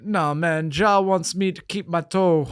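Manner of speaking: lightly put-on Jamaican lilt; half-hearted mock Jamaican accent; bad Jamaican accent. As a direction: attempt a Jamaican accent, badly. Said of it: "Bad Jamaican accent".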